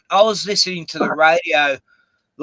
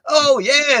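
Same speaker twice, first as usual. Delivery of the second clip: mock Aussie radio host; 11 semitones higher than usual. Mocking Australian radio hosts to a friend, in a high mock Aussie accent. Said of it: "these other fucking Aussie idiot fucking radio hosts".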